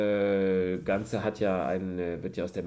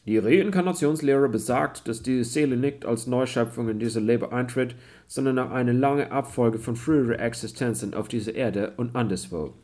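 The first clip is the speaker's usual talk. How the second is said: German read in a put-on English accent; a lightly faked English accent on German; pseudo-English accent; 4 semitones higher, 4 dB louder than usual. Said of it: "redest mit pseudo-englischem Akzent".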